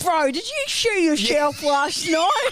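very high, needling, mocking gloating tone. Mimicking people who revel in your drunken night: imitating how they talk. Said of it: "but they talk like".

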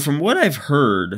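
voice breaking and cracking mid-phrase. Talking to viewers about a game's performance on pc; voice cracks. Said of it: "terrible voice crack right there".

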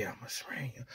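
hushed, secretive, confiding whisper. Acting out someone quietly admitting he is a Serrano: imitating a whisper. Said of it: "whisper in your ear and tell you".

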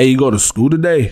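put-on Italian mafia gangster voice. Trying out voices, the speaker does an Italian mafia voice. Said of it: "this is one".

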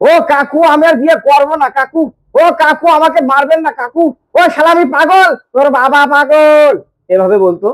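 put-on comic voice. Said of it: "কাঞ্চন মল্লিক ঠিক এভাবে কথা বলতো".

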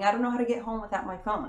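mock, put-on tearful crying voice. A teacher retells what a crying student said to her, imitating crying. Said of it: "her coming to me crying".

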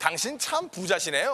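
ordinary delivery

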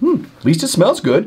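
sniffing happily. Reviewing a leather wallet, sniffing happily. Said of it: "(Mark sniffing happily)".

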